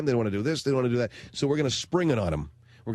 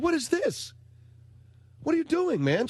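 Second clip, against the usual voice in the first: retold exasperated; 13 semitones higher than usual. Dad confronting daughter over sandwiches.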